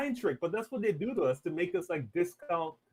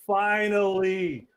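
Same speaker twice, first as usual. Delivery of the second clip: slow relieved finally; 2 semitones higher, 4 dB louder, much slower than usual. Retold or imitated. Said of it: "I was like".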